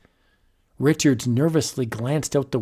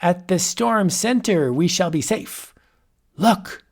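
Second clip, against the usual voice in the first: boastful wizard; 4 semitones higher than usual. Acted. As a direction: savour each threat. Wizard reassures, points.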